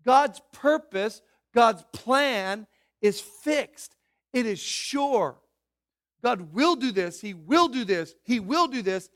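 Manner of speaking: "will" punched hard in each line, slow and loud; stress on will. Shown as a demonstration. Preacher hammering "will" about God's sure plan, stressed. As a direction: drive "will" down every time. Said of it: "I emphasize the words will".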